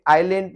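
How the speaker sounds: आइलैंड as "ailand", s dropped; island, s silent. Shown as a demonstration. Teacher giving the right way to say island. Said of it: "island नहीं पढ़ेंगे".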